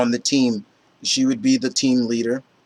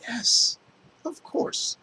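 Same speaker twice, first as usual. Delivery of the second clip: excited squeal; 11 semitones higher, 8 dB quieter, much slower than usual. Real, not acted. Delighted over favorite character.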